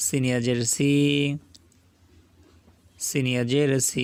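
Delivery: সি with the vowel held one alif long. Shown as a demonstration. Quran tutor drills the lengthened সি. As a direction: stretch the ই in সি. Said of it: "একালিপ টেনে পড়তে হবে".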